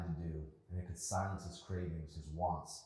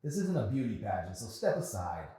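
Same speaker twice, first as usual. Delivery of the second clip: angry customer; 8 semitones higher, 8 dB louder than usual. Acted. Rude customer complaining.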